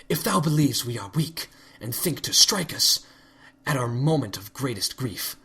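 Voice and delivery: royal goddess voice, archaic and accusing; a lightly voiced stern princess, cold and suspicious; regal accusing Celestia. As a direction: condemn an impostor from the throne. Celestia's tirade.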